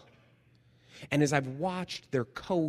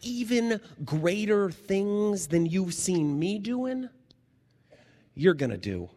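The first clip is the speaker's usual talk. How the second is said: lightly voiced Jesus, emphatic; a hint of Jesus' promise; 6 semitones higher, 5 dB louder than usual. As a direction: lift it up with wonder. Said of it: "He says".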